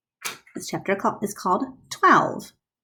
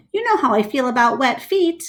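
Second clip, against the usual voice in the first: mild yell; 6 semitones higher than usual. Acted. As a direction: snap at him about wet feet. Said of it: "Bob yells".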